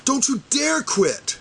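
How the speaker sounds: high, slow, impassioned "Don't you dare quit"; emotional plea. Real, not acted. Begging supporters not to give up, "dare" drawn out and emotional. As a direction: stretch out "dare" in a near-breaking plea. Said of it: "I got a little emotional there".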